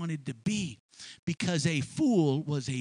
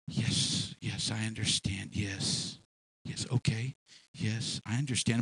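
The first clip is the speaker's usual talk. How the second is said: calm agreeing; 8 semitones lower, 3 dB quieter, slower than usual. Retold or imitated. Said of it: "they're smiling and they're saying".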